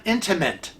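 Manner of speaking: "intimate" with a stray n, ending like "mint"; mispronounced intimate. Retold or imitated. Correcting Kevin by echoing his error, "intimate" ending in mint. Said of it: "not mint".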